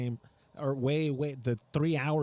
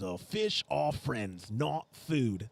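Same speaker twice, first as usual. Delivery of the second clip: put-on a light Australian accent, slow, as Bruce from Nemo; slow, drawn-out Australian shark line; 2 semitones lower, much slower than usual. Quoting Nemo's shark for Australian fans in a light Australian accent. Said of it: "Bruce from Nemo".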